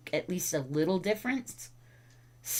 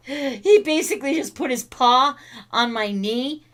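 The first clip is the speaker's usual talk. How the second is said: higher, louder, laughing while talking; 6 semitones higher, 5 dB louder than usual. Real, not acted. Owner tells viewers about dog's paw, laughing. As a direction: tell it through laughter. Amused by dog.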